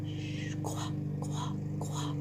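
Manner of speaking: shush, then whispered syllables; hushed tiny whispers; quiet whisper. Shown as a demonstration. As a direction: whisper each sound very softly.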